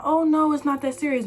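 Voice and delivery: high, breezy brush-off; brushing off her friend's worry, high and airy; naive dismissal. Retold or imitated. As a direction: wave off the danger lightly. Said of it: "still being naive and dumb".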